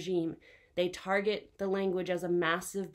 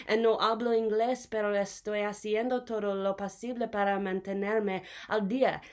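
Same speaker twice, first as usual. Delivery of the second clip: raised, louder switch into Spanish; emphatic Spanish; 3 semitones higher, 5 dB louder than usual. Acted. Immigrant pleading their case in a poem, emphatic. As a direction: push the Spanish out with more force.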